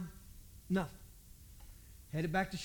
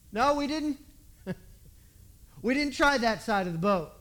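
louder defensive answer; the fishermen answer the stranger back, louder; loud retort; 3 semitones higher, 6 dB louder than usual. Retold or imitated. Acted reply in quarrel.

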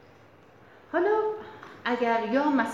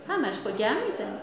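a hint of Yazdi dialect; Yazdi accent. Shown as a demonstration. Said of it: "اگه یزدی بخوام بگیم اینو میگی".

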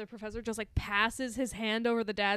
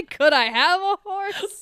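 loud, high, slow mock question hitting Could; laughing imitation, much louder, Could emphasized; stress on Could; 7 semitones higher, 9 dB louder, slower than usual. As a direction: draw it out loudly, imitating him with a big Could. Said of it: "the emphasis on the word could".

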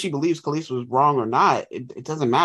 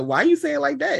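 puzzled UK host; 12 semitones higher, 3 dB louder than usual. Retold or imitated. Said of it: "and he was like".

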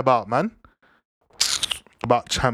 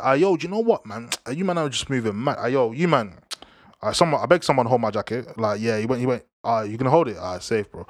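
imitating Mane; 3 semitones lower than usual. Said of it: "he said".

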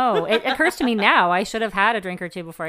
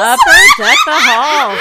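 drawn out and much higher; slow high echo; 11 dB louder, slower than usual. Pretend. Repeating the pun slow and high to her friends.

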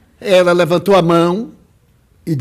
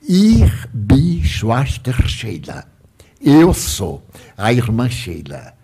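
slow, low spirit introducing herself; spirit nun; 5 semitones lower, slower than usual. Retold or imitated. German spirit nun introduces herself to Divaldo, slow spirit voice. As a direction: draw the words out solemnly, pitched down. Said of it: "e ela disse assim".

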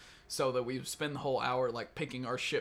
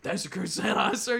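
louder, higher recruit reply; a touch of raised-voice deference; recruit answering up; 7 semitones higher, 8 dB louder than usual. Retold or imitated. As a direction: imitate a recruit sounding off to an instructor. Recruit answering the drill instructor.

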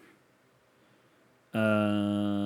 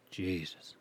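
much softer, under the breath; muttered exasperation; 2 semitones lower, 10 dB quieter than usual. Real, not acted. Host fed up with his oversensitive mic, soft muttered sigh.

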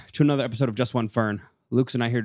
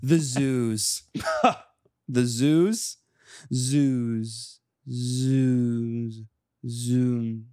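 repeated words with drawn-out endings; slam poetry reading; much slower than usual. Acted. Poet performing wordplay for the co-host, drawn-out slam delivery. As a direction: stretch each word, leaving pauses between. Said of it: "Do you want me to do a reading".

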